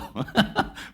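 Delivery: a breathy rising laugh; demo laugh. Shown as a demonstration. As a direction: show a whole-body laugh. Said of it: "이렇게 막 온몸으로".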